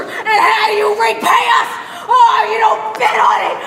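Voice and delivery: angry rant. Acted. Shop owner ranting at crowd.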